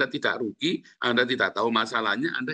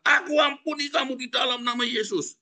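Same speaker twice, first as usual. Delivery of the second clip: high, sustained declaration of forgiveness; declaring forgiveness; 11 semitones higher than usual. Shown as a demonstration. Preacher shows an angry spouse what to say, declaring forgiveness. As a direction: chant it out high on one held pitch. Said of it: "Kamu bilang".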